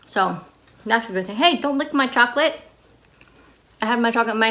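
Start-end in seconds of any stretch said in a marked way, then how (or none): 1.4-2.6 sharp, high scold to a puppy; scolding the dog. Real, not acted. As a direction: tell the dog off. Scolding dog licking chocolate.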